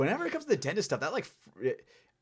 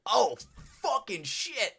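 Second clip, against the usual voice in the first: mock panic; 11 semitones higher, much slower than usual. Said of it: "I was like".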